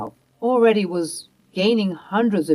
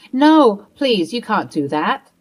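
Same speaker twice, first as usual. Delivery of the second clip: desperate plea; 3 semitones higher, 6 dB louder than usual. Acted. Grandmother begging Mia not to call police, panicked plea. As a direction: plead in panic.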